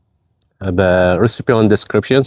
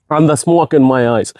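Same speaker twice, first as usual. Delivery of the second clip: hoarse, voice worn by spice; 5 semitones higher than usual. Real, not acted. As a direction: speak through a scratchy throat. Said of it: "My sound is disappear".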